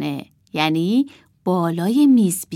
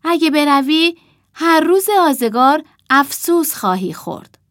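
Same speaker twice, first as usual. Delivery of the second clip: hoarse sad owl; 7 semitones higher, 6 dB louder than usual. Acted. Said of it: "با صدایی گرفته و غمگین گفت".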